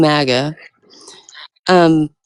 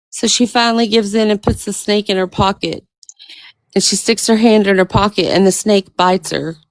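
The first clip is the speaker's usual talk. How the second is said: ordinary talk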